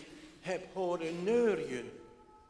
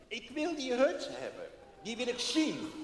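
put-on high eager child voice; a determined little boy insisting; 7 semitones higher than usual. Boy Freek wanting to reach the hut, eager.

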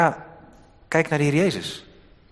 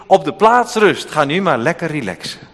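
mock drill command. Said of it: "Hij zegt ook niet".

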